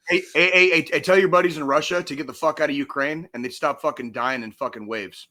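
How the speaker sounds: loud, heated shout at the caller; angry rant. Real, not acted. Host yelling at the pro-Russia commenter. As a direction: snap back hard at him.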